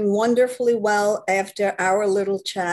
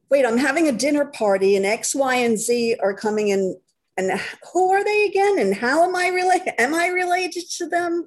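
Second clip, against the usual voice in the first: flustered host; 4 semitones higher than usual. Retold or imitated. Flustered dinner party host.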